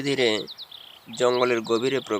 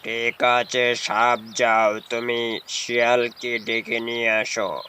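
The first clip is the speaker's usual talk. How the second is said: slow, slightly low caged tiger; a tired tiger pleading from his cage, slowly; lightly voiced tiger; 3 semitones lower, slower than usual. Caged tiger telling the snake about the hunter, slow and a bit low.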